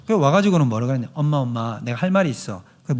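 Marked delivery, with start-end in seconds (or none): 1.1-2.6 a hint of a small boy, softer; lightly voiced child asking earnestly; little brother. Young brother telling his mother, lightly childlike. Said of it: "뭐라고 얘기를 했냐면".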